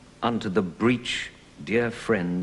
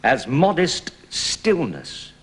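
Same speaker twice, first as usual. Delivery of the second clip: verse speaking. Shown as a demonstration. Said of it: "Also pretty regular".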